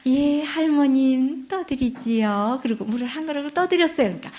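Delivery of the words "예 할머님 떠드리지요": slow, gentle and respectful; sweet polite girl. Acted. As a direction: answer the grandmother kindly and slowly. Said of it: "애기가 아주 심성이 고와요".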